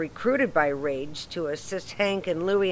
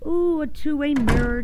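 high, loud delighted ooh; thrilled; 8 semitones higher, 5 dB louder than usual. Acted. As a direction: gush like an eager first-timer. Thrilled at the interrogation room.

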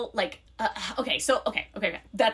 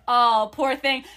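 slow, louder cooing pity; acted sympathy; 2 semitones higher, 6 dB louder, slower than usual. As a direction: draw out the sympathy. Acted sympathy to complaining girl.

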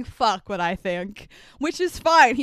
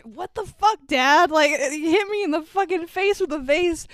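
mock indignation, pitched up at the start; retold protest; 4 semitones higher than usual. Son hit with a vase by dad, mock indignant protest. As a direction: lightly act out an aggrieved son.

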